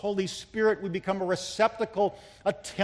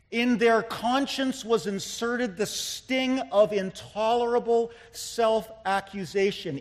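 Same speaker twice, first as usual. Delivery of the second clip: the whole sentence driven through without breaks; firmer, flowing repeat; 4 semitones higher than usual. Real, not acted. Preacher repeating Parker's line to drive it home, firm and flowing. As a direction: press the quotation home in one sweep. Repeats the quotation more forcefully.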